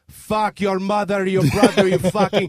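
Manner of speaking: slow, loud, ranting curses; a hammed-up scammer yelling down the phone; retold angry tirade. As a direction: hammer each curse out at the caller.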